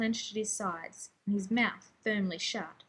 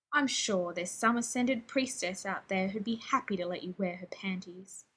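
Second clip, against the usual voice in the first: spat, into a whisper; 3 semitones lower than usual. Acted. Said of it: "Rodney spat".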